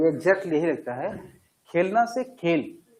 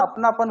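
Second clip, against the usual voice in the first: अपनापन higher, carrying emotion; with feeling; 5 semitones higher than usual. Shown as a demonstration. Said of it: "मैं भाव दे रहा हूं ना". (अपनापन ऊँचे स्वर में भाव से)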